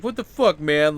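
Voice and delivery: mock an exasperated friend blowing up; freaking out. Friend angry over a late guest, freaking out. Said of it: "his friend is freaking out".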